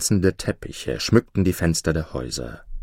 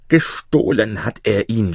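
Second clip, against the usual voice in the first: mild shout; 3 semitones higher, 3 dB louder than usual. Acted. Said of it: "schrie Omar".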